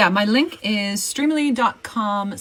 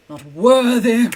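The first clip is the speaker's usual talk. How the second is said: mock disdain; 6 dB louder than usual. Repeating louder to the marker.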